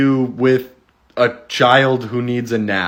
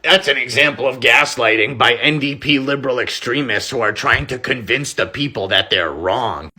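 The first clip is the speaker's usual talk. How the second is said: mocking politician voice. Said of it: "and he just says".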